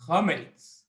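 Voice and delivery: word set apart, said slowly; slow dictation. Shown as a demonstration. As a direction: say it slowly for someone writing it down. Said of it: "First time I'm gonna say it slow".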